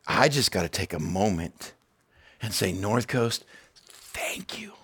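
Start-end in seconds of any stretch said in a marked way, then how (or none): 2.7-4.7 breathy whispered thank you. Real, not acted. Pastor whispering thanks to his church. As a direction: whisper it with feeling.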